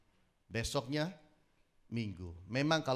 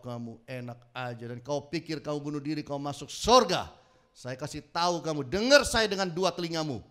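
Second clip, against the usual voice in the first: acted-out angry telling-off; retold scolding. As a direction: lecture him hard, hammering key words. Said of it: "Jadi saya marahin dia".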